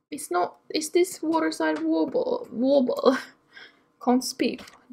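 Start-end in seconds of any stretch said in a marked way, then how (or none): 1.2-3.2 slight accidental British accent; a hint of British on the words. Shown as a demonstration. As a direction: slip lightly into British pronunciation. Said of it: "like, a British accent".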